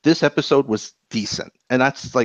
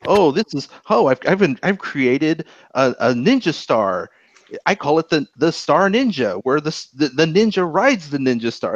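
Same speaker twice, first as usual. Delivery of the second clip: mock goofy character; 4 semitones higher than usual. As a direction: imitate a silly cartoon inventor proudly presenting. Mocks the episode's goofy dialogue.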